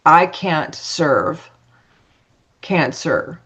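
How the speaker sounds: "I can't serve" said slowly, split word by word, then "cancer"; slow, spaced "can't serve", pause, then "cancer"; cancer sounded out. Shown as a demonstration. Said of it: "And he said, It's".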